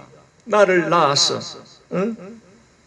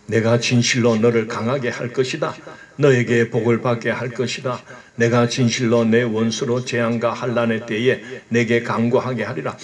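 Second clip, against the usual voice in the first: lower, measured divine voice; voice of God; 5 semitones lower than usual. Acted. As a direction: speak as God, low and steady. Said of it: "하나님도 막 아들짝 놀라는 것 같아". (낮고 묵직한 하나님의 목소리)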